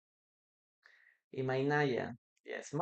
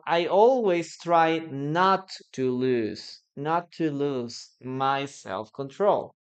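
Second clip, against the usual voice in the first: corrected sentence; 3 semitones lower, slower than usual. Shown as a demonstration. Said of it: "Maybe you can say".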